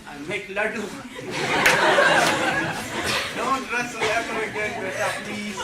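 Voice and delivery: high, loud, doting Desi mother with laughs; Desi mom. Retold or imitated. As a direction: spoil your boy, pleading tenderly. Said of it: "the Desi mom I wanted".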